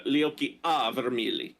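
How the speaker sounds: "a" given its own beat in "le occhi a vermili"; stress on A. Shown as a demonstration. Reader shows a friend the beat in the Italian line, stress on "a". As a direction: set "a" apart as a stressed syllable before "vermili". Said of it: "A is stressed".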